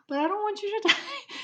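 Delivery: high-pitched whine breaking into laughter; mock tearful plea. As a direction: plead like an upset little sister, half laughing. Retold plea of upset little sister.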